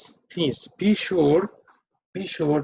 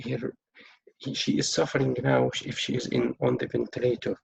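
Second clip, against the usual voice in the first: sympathetic doctor; 2 semitones lower than usual. Shown as a demonstration. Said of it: "Keep showing empathy and sympathy".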